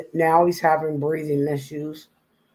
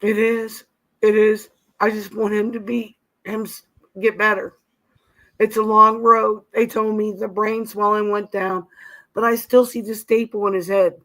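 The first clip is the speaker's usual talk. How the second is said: crying; 5 semitones higher than usual. Real, not acted. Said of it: "you sound just so distraught".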